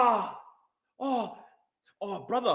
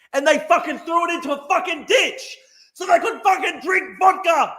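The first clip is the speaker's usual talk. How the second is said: louder, higher, furious yelling; furious shout; 6 semitones higher, 4 dB louder than usual. Real, not acted. Angry streamer yelling about the thief who stole his wallet. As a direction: spit it out in rage.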